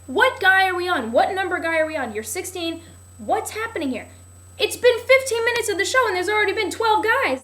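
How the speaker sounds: loud, high, incredulous rant; exasperated disbelief. Retold or imitated.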